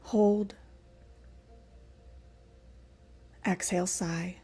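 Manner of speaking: measured breathing cues with long pauses; guided breathwork. Acted. Teacher leading the class through sigh breaths, guided breathwork. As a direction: pace each cue to a breath.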